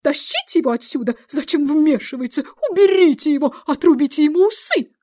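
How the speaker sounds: high, piercing royal shriek; shrill scream. A narrator's reading. Queen screaming at the guards to seize the Dormouse, piercing and high. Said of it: "пронзительно закричала королева".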